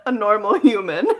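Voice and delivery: laughing mock inner thought.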